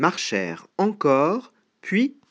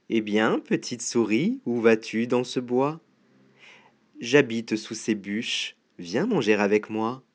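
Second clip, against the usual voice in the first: coaxing snake; 3 semitones lower than usual. Acted. Snake inviting the mouse to eat with him, low and coaxing. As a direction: lure them in with a low voice.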